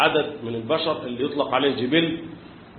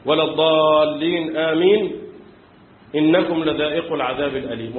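imitating the imam. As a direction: recite it like the imam in prayer. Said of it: "صليت ورا إمام".

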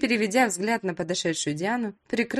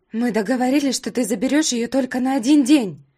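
loud, raised voice; shouting into the phone; 3 semitones higher, 7 dB louder than usual. A narrator's reading. Mother shouting at ex-husband on the phone, loud. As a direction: yell it down the phone at him. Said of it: "прокричала в трубку Алиса".

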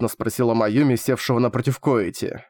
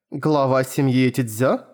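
slow, disbelieving question; surprised question; slower than usual. Acted. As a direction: ask it in surprise. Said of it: "удивилась Маюми".

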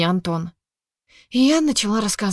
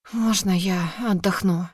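slow, slurred words of exhaustion; slurred, exhausted; slower than usual. Acted. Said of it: "еле ворочая языком".

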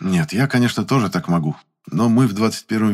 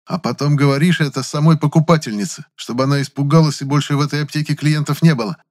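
raised, scornful voice; mocking; 8 semitones higher, 4 dB louder than usual. A narrator's reading. Gennady exposing Valentin's scheme, raised and mocking. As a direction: keep jabbing with scorn.

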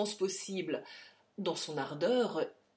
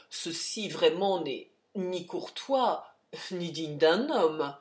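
slow rebuke; 3 dB louder, slower than usual. Acted. Charlie rebukes the general.

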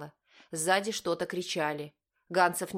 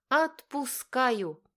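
high, loud and drawn out slowly; nervous girl; 7 semitones higher, 4 dB louder, much slower than usual. A narrator's reading. Girl releasing the brake, high and slow. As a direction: stretch it out with nerves.

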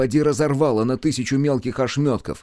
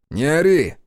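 irritated order; 4 semitones higher, 4 dB louder than usual. A narrator's reading. Snapping at a deafened shouter.

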